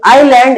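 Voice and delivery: आइलैंड with no S, eye-land; silent S in island. Shown as a demonstration. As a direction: say आइलैंड going from I straight to L. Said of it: "एस silent रहता है".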